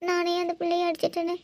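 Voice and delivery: upset, weepy protest; tearful. Acted. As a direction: brush off comfort while still tearful. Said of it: "அழுந்துட்டே இருக்காதீங்க".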